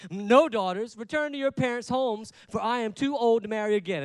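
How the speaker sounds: mad Naomi. Acted. Preacher voicing Naomi sending her daughters-in-law away, angry. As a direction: read it as a fed-up mother-in-law. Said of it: "That's how I like to read it, 'cause I think that's how she said it".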